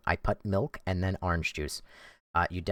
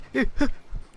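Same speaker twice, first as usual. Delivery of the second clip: breathy laugh. Real, not acted. Laugh at game.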